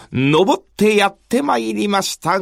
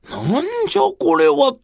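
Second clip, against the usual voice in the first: sudden high startled cry; startled exclamation; 9 semitones higher, much faster than usual. Acted. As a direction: jolt of surprise. Emperor startled in dream.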